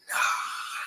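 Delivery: big yell mimed on breath alone; breathy mock yell. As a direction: act out a huge yell without voice, very soft. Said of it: "I let out this big yell".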